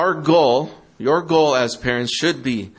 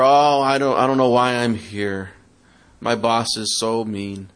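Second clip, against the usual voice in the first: mock whine; 2 semitones lower than usual. Employee whining that the boss is mean, sulky mock whine. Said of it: "complain and whine about".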